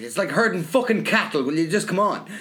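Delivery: retold parent losing patience while herding everyone along; exasperated dad. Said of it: "that was something my father used to say".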